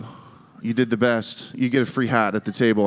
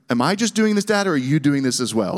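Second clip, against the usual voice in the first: put-on higher-pitched incredulous teen questioning his dad; half-joking alarm, pitched up; 4 semitones higher than usual. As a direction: question it in a high, disbelieving voice. Teen self questions dad's smuggling plan.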